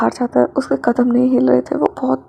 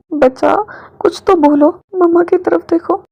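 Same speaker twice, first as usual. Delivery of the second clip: higher, coaxing plea; pleading; 5 semitones higher, 3 dB louder than usual. A narrator's reading. Mother begging her silent daughter to say something, higher and pleading. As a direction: coax the child to speak.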